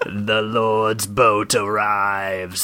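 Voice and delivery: slow, drawn-out skeleton herald. Acted. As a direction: announce it very slowly, like a skeleton. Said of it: "spoke the skeleton".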